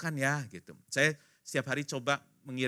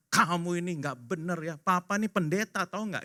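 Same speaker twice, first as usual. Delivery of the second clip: higher-pitched mock telling-off; scolding parent; 5 semitones higher than usual. Pastor papa telling off his child, scolding. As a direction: act out a pastor parent's reproach.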